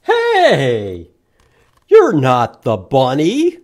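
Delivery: loud startled shout. Acted. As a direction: call out in alarm. Character shouts at frog.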